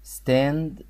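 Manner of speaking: each sound spelled out at half speed; slow model reading. Shown as a demonstration. Teacher slows down so pupils can repeat the word. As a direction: stretch stand out slowly for the class. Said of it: "قولوا ورايا".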